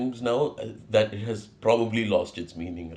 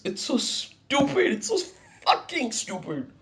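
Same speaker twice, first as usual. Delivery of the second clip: exasperated; 12 semitones higher, 4 dB quieter than usual. Real, not acted. Exasperated rant about misery.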